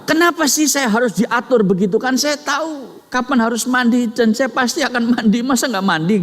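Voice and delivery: put-on high, whiny protest of a crying child; crying angry child. Father voicing his crying son who refuses the bath, high whiny protest. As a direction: protest like a sulking kid, up high. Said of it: "kemudian dia nangis, dia kemudian marah".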